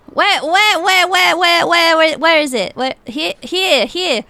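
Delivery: loud, high rapid-fire repetition; frantic searching. Acted. Woman with face pressed to the map, frantic loud searching. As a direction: blurt it over and over in a frenzy.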